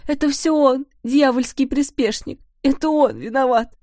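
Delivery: high, loud wailing blame; a mother's high, loud lament; grieving accusation. A narrator's reading. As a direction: cry out the accusation in grief. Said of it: "причитала она".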